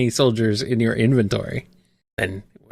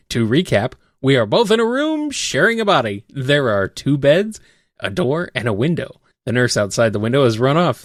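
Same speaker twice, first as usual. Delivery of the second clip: game master narration. Acted.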